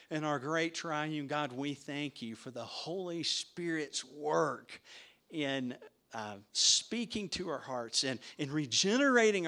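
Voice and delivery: slow, earnest pastoral prayer; closing prayer. Acted. Pastor praying over the congregation, slow and earnest. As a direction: lift it up to God with feeling. Let's pray.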